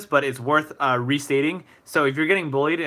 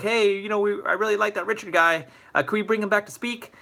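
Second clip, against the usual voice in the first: high-pitched, lightly voiced student pleading; eager student request; 8 semitones higher than usual. Student asking the school to bring a speaker back, eager. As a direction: ask hopefully in a higher mock-kid voice.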